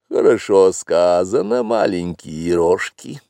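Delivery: breathy vintage purr. Acted. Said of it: "промурлыкала".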